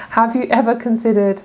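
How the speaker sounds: ordinary delivery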